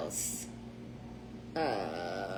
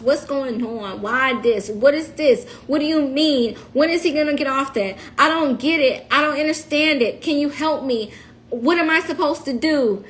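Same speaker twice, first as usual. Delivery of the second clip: exasperated questioning; 3 semitones higher than usual. Retold or imitated. Re-enacting her frantic calls to officials.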